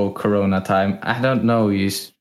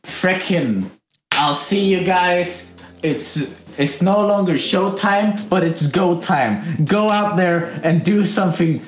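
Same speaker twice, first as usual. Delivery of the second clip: high-pitched silly sign-off voice; high note; 8 semitones higher than usual. Pretend. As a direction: push the whole farewell way up high. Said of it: "end it on a high note".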